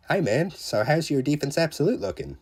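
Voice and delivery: a quick, cheeky British-accent impression of a friend; playful, not-very-good British accent; bad British accent. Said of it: "I can't do a very good British accent".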